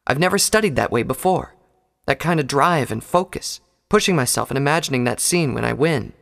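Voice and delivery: earnest unicorn, a little flustered; Twilight's voice. A narrator's reading.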